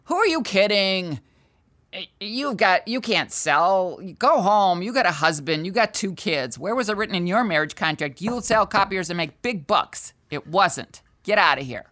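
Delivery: lightly voiced scolding inner critic; devil voice. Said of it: "those two voices, like the devil".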